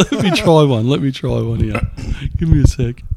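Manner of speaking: talking through a mouthful; words round a bite of wings; chewing while talking. Real, not acted. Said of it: "If you hear us chewing".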